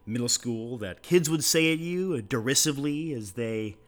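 soft, sing-song host voice; exaggerated cartoon intonation. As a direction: lay on a goofy announcer lilt. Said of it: "why are you talking like that?".

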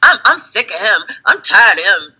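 high, mocking whiny rant; complaining friend. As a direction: mimic a friend griping about her boyfriend. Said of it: "They'd be like".

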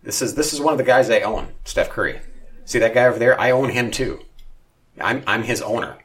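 loud, high, showing off his players; a smug team owner bragging to friends; hammed-up proud owner voice; mock boastful owner. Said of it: "they don't say that".

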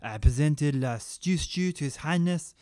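lightly done broken French chef; mild fake French. Chef Gary boasts about his stew, mock French. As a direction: keep a hint of the fake French. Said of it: "broken French accent".

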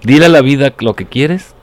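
grand poetry declamation. Shown as a demonstration. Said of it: "haz de cuenta que estás como que declamando".

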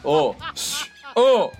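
put-on slurred drunk voice, slow; town drunk. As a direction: play the hungover drunk. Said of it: "fale aí com ressaca aí".

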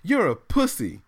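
imitating daughter. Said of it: "I hear my daughter say".

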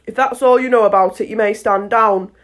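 loud, lightly voiced royal order; a touch of a stern monarch; commanding king. King gives orders from the bench.

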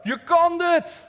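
loud, high, drawn-out sideline yell; cheering shout. Retold or imitated. Church member cheering a teammate as she runs past, shouting. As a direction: shout it out like a fan cheering a runner on. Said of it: "geschreeuwd hebben we".

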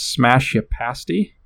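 "smash ya pasty" slowly, YA for your; slangy pronunciation. Shown as a demonstration. Host reads out the British phrase, slangy pronunciation. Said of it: "that's how it's pronounced".

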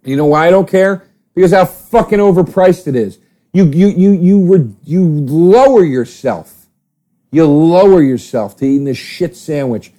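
rising irritation at the price; rant. Real, not acted. Ranting about overpriced sandwich.

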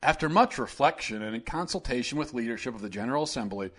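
a hint of a dull, evasive governor reading a statement; Mike Pence impression. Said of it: "this is my Mike Pence impression".

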